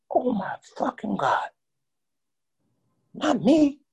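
high, choked crying; sobbing alone in the corner after the news; crying despair. Retold or imitated. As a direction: break down in disbelief. Devastated in the corner.

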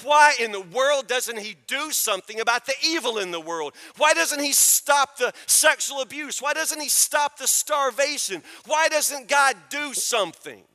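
indignant demand, voiced for the listener; angry questioning. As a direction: act out exasperated, insistent questions to God. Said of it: "you get so angry yourself".

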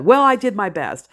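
mock parental protest; angry parent. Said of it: "they get angry at you".

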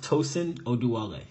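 Tosin Oduwole said clearly as TOH-sun oh-doo-AH-lay; name pronunciation demo. Shown as a demonstration. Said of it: "my name is pronounced".

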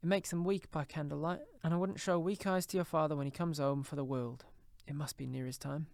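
a mother putting on a brave front, pitched high; Cratchit's wife. A narrator's reading. Mother explains her weak eyes.

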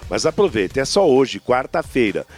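upbeat radio ad read over music; hard sell ad. Acted.

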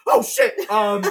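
very high shocked yelp; acted squeal of alarm, then a stalling um; startled. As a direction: jump out of your skin in a high voice. Director startled by the robot.

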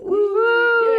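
high whooping cheer; excited woo. Real, not acted. Cheering intro.

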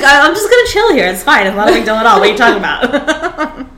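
fast, high mock-casual; chill dog voice. The dog insisting it can stay, laughing mock chill. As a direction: play the dog laid back.

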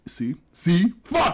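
hiccup cutting off the words; talk, then a sudden hiccup. Real, not acted. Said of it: "I never get the hiccups".

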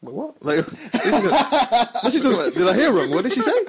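high-pitched, baffled questioning; retold disbelief. Asking his friend what she is talking about, retold disbelief. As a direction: replay your bafflement, half laughing, voice jumping up.

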